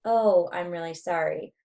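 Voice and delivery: drawn-out, unhurried apology. Shown as a demonstration. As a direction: stretch out "Oh" and take your time. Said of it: "The rate's gonna make a difference".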